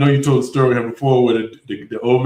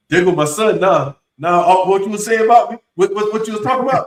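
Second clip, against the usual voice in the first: dad calling out his son's arrival, pitched higher; higher, teasing dad voice; boastful dad; 5 semitones higher than usual. Retold or imitated. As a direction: show off the son to the room.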